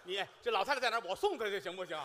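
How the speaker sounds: ordinary delivery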